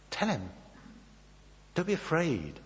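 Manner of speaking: ordinary delivery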